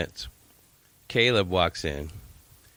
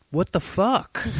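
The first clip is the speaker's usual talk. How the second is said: high, rising mock outrage; retold shocked outburst; 12 semitones higher, slower than usual. Teen son finding frozen fries, high shocked outburst. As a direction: imitate a teen's shocked what the fuck.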